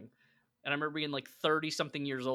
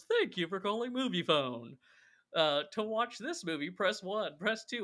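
higher-pitched mock automated phone greeting; Kramer; 6 semitones higher than usual. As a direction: imitate a hammy movie-hotline announcer. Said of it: "he just answers the phone and he goes".

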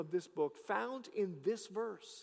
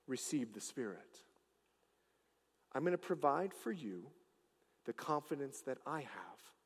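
Jesus to his disciples. Acted. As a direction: speak it gently as Jesus giving his followers the Spirit. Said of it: "he says to the disciples".

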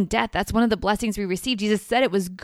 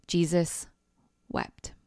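hushed reverent reading; 3 semitones lower, 5 dB quieter, slower than usual. Acted. Reading the key verse softly.

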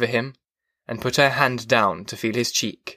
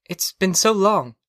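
wife's higher-pitched voice; defensive reply from the wife, pitched up; 7 semitones higher than usual. A narrator's reading. Wife excuses forgetting to her husband, high voice.

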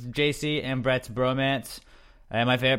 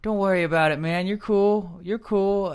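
high, reassuring mock J C voice; imitating J C; 9 semitones higher, 4 dB louder, slower than usual. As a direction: comfort a buddy in a high put-on voice. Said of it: "it was just like".

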